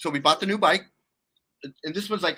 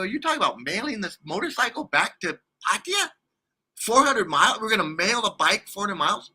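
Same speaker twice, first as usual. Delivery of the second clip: raised pitch, disbelieving recap; incredulous questioning; 3 semitones higher than usual. Retold or imitated. Man querying girlfriend about mailing a motorcycle, incredulous. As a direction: question it as an absurd plan.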